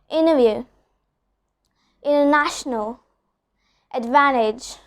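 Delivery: Interview and international said with no T at all; dropped T after N. Shown as a demonstration. Teacher demonstrating the silent T after N. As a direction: let the T vanish after the N. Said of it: "I'm not pronouncing the T sound".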